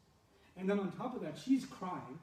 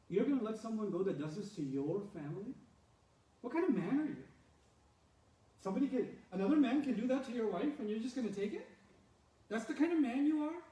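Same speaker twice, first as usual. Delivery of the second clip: goading taunt; 4 semitones higher than usual. Acted. Wife goading her husband.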